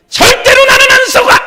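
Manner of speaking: 나는 hit loud and high; shouted with 나는 strongest; stress on 나는. Acted. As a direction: punch 나는 in the shout. Repeated defiance, shifting stress.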